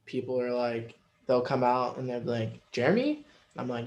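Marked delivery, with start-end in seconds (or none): 2.7-3.3 quizzical interviewer. Retold or imitated. Interviewer calling his name.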